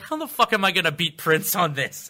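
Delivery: high, loud exasperated comic; hammed-up exasperation, rising; Dave Chappelle impression. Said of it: "He was like".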